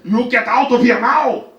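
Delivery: loud, high, slow furious shout; hammed-up irate old man, drawn out; old man screaming. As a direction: bellow each word as an order.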